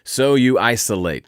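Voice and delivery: smooth ladies' man take on the line. Retold or imitated. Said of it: "Did you hear that when I said isolate?".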